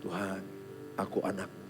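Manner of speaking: whisper-soft prayer of a crying student; tearful retold prayer. Preacher recalls praying while crying in exam, hushed plea. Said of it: "Saya nangis".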